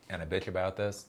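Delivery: ordinary talk, nothing marked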